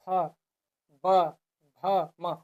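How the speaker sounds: careful labial sounds फ ब भ म for students; lip sounds demo. Shown as a demonstration. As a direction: show the lips working on फ, ब, भ, म one by one. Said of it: "जैसे बोल के देखिए".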